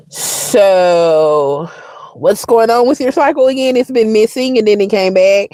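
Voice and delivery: lightly voiced doctor, measured questioning; a hint of professional doctor-speak. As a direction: imitate a doctor checking in on a patient. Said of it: "this is what the doctor say".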